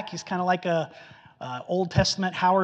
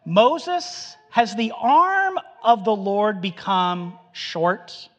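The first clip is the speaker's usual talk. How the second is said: God rebuking Moses; 2 semitones higher, 4 dB louder, much slower than usual. Retold or imitated. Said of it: "He says".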